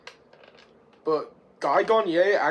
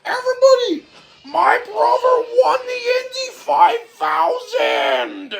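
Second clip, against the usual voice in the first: screamed announcement; 10 dB louder than usual. Retold or imitated. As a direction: shriek the news to everybody. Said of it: "And Chet says".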